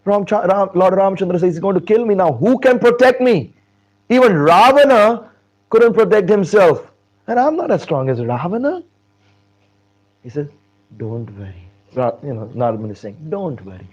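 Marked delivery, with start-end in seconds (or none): 1.5-8.8 high, loud desperate alarm; hammed-up frightened pleading; acted panic. King fears for his life. 11.0-11.7 soft, calming tone; low-key voiced reassurance; acted reassurance. Narada soothes the panicking king. 13.3-13.9 soft, calming tone; low-key voiced reassurance; acted reassurance. Narada soothes the panicking king.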